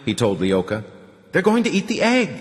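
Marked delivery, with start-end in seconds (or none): 1.3-2.3 put-on high, childlike announcement; a small girl calling out the news; little girl proclaiming. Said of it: "the little girl proclaimed".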